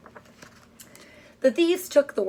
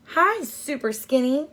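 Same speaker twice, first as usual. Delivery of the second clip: taunting call; 5 semitones higher than usual. Acted. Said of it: "they would call".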